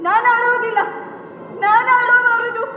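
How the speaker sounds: holding back tears, firm; defiant grief. Acted. Widow tells the women she will not cry, defiant grief. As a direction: refuse to cry through the grief.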